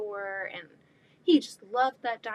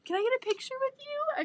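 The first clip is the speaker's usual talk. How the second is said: "Can I get a picture with you?" squealed much higher; fangirling. Retold or imitated. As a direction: ask it like a starstruck fan. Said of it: "I was fangirling".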